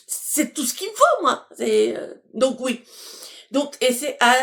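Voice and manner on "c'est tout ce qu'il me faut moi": high and laughing through the words. Real, not acted. Vlogger laughing about her damaged hands, high and giggly. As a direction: laugh it off at your own expense.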